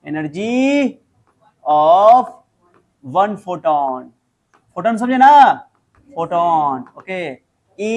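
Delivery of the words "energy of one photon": very slow, word by word, for writing down; slow dictation. Shown as a demonstration. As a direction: dictate it slowly so they can write. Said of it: "बोलो, क्या लिखोगे?". (धीरे-धीरे लिखवाना)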